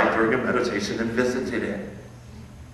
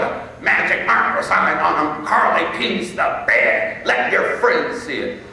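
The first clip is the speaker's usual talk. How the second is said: a raised, scolding parent's tirade; harsh scolding parent; 4 semitones higher than usual. Retold or imitated. Parent shaming the boy over wet sheets, harsh scolding. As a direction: shame the child for wetting the bed. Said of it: "with such harsh words".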